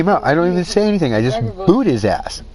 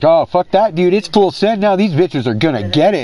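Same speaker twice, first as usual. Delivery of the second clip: fired-up buddy; 5 semitones higher than usual. Retold or imitated. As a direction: imitate his friend going full send. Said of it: "He's like".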